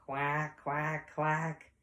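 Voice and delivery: three even, spoken quacks; duck quacks. Acted. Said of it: "what a duck says".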